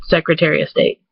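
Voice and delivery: "Secretary of State" as secretary-uh-State; Michigan pronunciation. Shown as a demonstration. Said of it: "I say sec".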